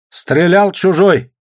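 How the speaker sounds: high, loud, slow and certain; firm. A narrator's reading. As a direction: state it with no room for doubt. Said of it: "твёрдо сказал Сашка".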